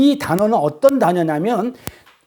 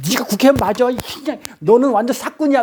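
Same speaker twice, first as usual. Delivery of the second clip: raised-pitch retort in an acted fight; mock quarrel; 4 semitones higher than usual. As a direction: hurl it back as if squabbling. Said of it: "서로 이렇게 싸우고 있는". (서로 싸우듯 쏘아붙이는 흉내)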